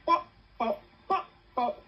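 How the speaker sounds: bubbles popping one after another; imitated popping. Streamer showing her bubble bursting, imitated popping. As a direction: pop out each bop separately. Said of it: "my bubble was just going".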